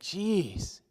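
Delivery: soft, dry and sarcastic under the breath; sarcastic aside. Retold or imitated. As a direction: mutter it with mock disbelief. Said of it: "I'm like".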